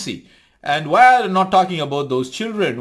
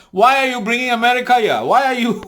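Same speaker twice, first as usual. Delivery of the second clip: sharp indignant challenge, pitched up and louder; 8 semitones higher, 5 dB louder than usual. Real, not acted. Ranting at YouTubers, outraged raised challenge. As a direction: demand an answer, outraged.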